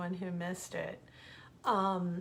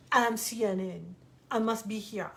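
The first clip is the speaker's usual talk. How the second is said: French accent impression; 4 dB louder than usual. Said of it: "he'd say".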